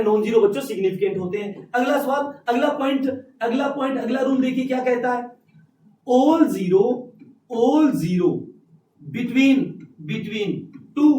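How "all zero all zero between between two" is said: note-taking dictation. Real, not acted. Dictates next rule for note-taking.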